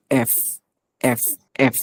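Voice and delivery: careful demonstration of "এফ", airy final f; bitten F. Shown as a demonstration. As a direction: let air out on the f of "এফ". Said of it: "উপরে দাঁত দিয়ে নিচে একটু কামড়ে".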